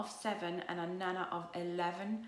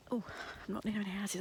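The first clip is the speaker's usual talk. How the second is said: ordinary delivery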